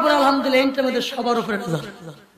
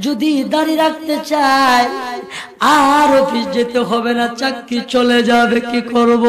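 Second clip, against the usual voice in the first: half-sung preaching with long drawn-out phrase endings; intoned religious narration; melodic sermon storytelling; slower than usual. A narrator's reading. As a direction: chant the story to a congregation, stretching key words.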